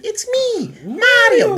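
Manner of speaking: very high-pitched cartoon game-character voice; Mario. Recalling the N sixty-four game firing up, Mario impression. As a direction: imitate the game's squeaky catchphrase. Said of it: "fired up and you heard".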